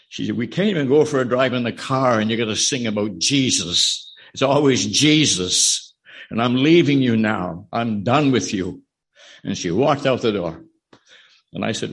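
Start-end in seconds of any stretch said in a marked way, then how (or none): 0.4-8.8 mock angry wife walking out. Wife snapping at her husband, louder angry. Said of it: "she got very angry".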